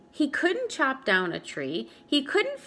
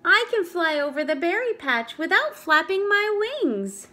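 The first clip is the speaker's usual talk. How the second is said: boastful hawk; 7 semitones higher, 4 dB louder than usual. Acted. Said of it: "The hawk bragged".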